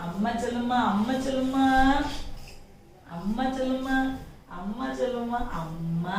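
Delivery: gentle, quiet prompting, repeated patiently; soft coaxing. Acted. Mother teaching her child to say amma, soft coaxing. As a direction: coax a child softly to speak.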